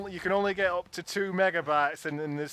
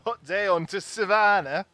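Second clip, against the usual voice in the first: put-on echoed English accent; 2 semitones higher, 6 dB louder than usual. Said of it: "I'll just do all of those voices for you".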